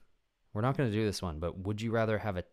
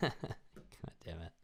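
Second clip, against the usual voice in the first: whispered curse; 3 semitones lower, 15 dB quieter, slower than usual. Real, not acted. Muttered after laughing.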